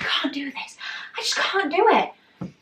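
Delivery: high, rising whine of defeat; whiny protest. Retold or imitated. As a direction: re-enact giving up, pitch climbing. Retells giving up on lift.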